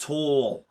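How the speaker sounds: Tall with a long, stretched vowel; drawn-out tall. Shown as a demonstration. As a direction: draw out Tall like a New Yorker. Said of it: "It's, like, really drawn out".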